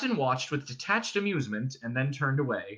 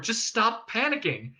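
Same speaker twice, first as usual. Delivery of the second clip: exasperated hushing; 9 semitones higher than usual. A narrator's reading. Ford cuts off Arthur's panic.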